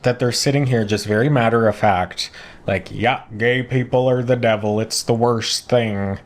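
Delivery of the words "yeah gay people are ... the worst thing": lightly put-on country western accent, slowed; mock country western accent. Imitating the bigots in a light country western accent. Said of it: "assigning them a country western accent".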